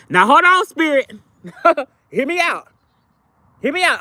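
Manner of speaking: high-pitched, laughing protest to Spirit; playful pleading. Real, not acted.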